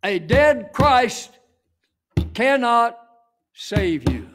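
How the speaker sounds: animated. Real, not acted. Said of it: "let me be animate here".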